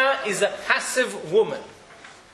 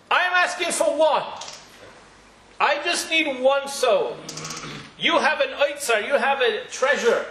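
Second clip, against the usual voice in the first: pleading prayer; 4 semitones higher than usual. Retold or imitated. Hannah's prayer to God, acted.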